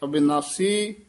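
ਅਬਿਨਾਸੀ said a-bi-na-si, with a short i after b; short i shown. Shown as a demonstration. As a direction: sound the ਬਿ in ਅਬਿਨਾਸੀ. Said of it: "ਬੱਬੇ ਦੀ ਸਿਹਾਰੀ ਲਾ ਕੇ".

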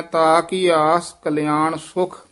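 ਤਾ lengthened and kept separate from ਕੀ; ਤਾ ਲਮਕਾ ਕੇ; ਤਾ drawn out. Shown as a demonstration. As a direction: stretch ਤਾ, don't say ਤਾਕੀ. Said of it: "ਲਮਕਾ ਕੇ ਬੋਲਣਾ ਹੈ".

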